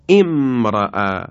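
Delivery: امرأ said slowly as "emra'", opening with a clear e sound; word start with kasra. Shown as a demonstration. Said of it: "با کسره آغاز بشه". (امرأ را آهسته و با کسره در ابتدا بخوانید)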